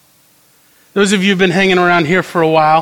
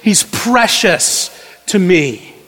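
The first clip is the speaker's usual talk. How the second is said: tender, precious; 2 semitones higher than usual. Retold or imitated. Centurion tenderly telling of his slave boy. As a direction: hold the boy dear in your voice. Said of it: "This is a centurion who says".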